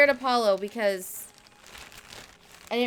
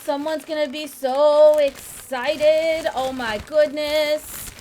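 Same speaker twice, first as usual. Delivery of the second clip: slow, louder, drawn-out delight; excited; 5 dB louder, slower than usual. Real, not acted. Owner teases her dog about his new treats, excited and slow.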